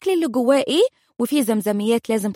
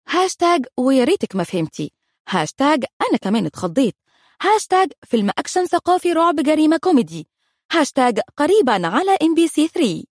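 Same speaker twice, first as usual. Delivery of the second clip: usual speaking voice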